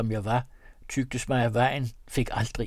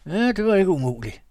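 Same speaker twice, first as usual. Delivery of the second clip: higher, rough country woman's voice; robber woman; 7 semitones higher, 5 dB louder than usual. A narrator's reading. Robber woman to the young man, sly and knowing. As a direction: answer like a cunning peasant woman.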